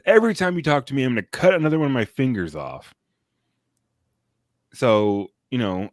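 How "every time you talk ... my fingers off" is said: mock threat. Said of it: "he says".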